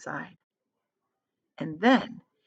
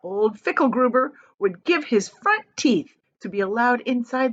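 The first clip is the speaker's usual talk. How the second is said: lightly voiced stern host; a hint of a strict showman; stern Wonka; 3 semitones higher than usual. Wonka lectures the guests.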